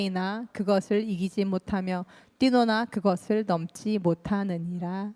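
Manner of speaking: steady read-aloud of scripture, slowing at the end. Acted. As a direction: read the verse aloud with the congregation. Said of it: "같이 한번 읽어볼까요".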